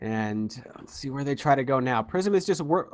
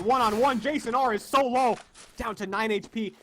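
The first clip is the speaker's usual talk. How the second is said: excited; 8 semitones higher than usual. Real, not acted. Tense clutch moment in play-by-play.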